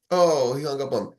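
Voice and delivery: usual speaking voice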